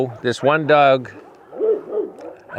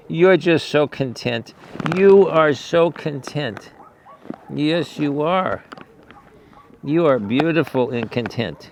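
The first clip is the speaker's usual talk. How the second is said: tender cooing; 3 semitones higher than usual. Real, not acted. Owner sweet-talking his contented horses, tender and slow. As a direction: gently praise a calm animal.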